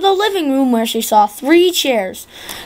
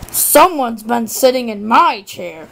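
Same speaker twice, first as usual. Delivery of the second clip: Papa Bear growl; 2 semitones lower than usual. Acted. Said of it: "growled Papa Bear".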